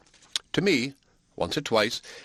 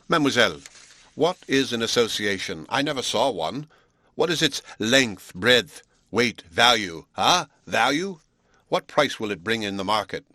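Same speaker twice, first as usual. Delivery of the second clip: scornful; 4 dB louder than usual. Acted. Hunsden's scornful tirade.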